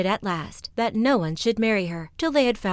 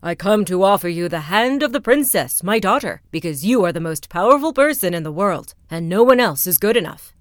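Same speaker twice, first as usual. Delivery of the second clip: loud, puffed-up proclamation; pompous rat king, louder; proud rat king; 8 dB louder than usual. Acted. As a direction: offer the princess grandly. Rat King proposes to wall.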